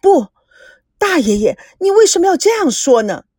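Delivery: pleading grandson. Acted. Grandson protests to his great-uncle, pleading. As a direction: push back in alarm.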